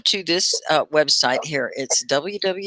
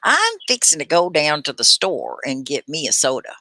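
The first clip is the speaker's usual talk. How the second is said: a light Texas drawl, lightly voiced; Southern drawl. Shown as a demonstration. Texan teacher demoing her old Southern drawl for students. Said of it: "can I say a drawl?".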